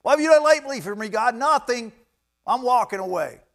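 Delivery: high, loud mock outburst; hammed-up indignant shouting; acted angry demand. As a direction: play someone storming off from God in a huff. Acted believer quitting on God.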